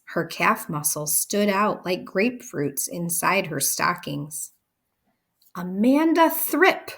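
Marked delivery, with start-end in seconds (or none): 5.5-6.9 booming high yell of a name; shouting. A narrator's reading. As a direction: bellow across the playground. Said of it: "she was shouting".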